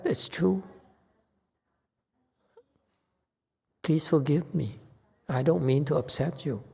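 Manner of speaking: soft, placating apology with pauses; gentle apology. Acted. Teacher models soothing an upset honey, gently apologetic.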